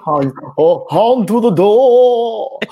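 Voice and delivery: high, loud, very slow vampire drone; Count Chocula voice. Retold or imitated. Mocking a radio host as a cartoon vampire, slow and high. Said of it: "why she sound like the Count Chocula".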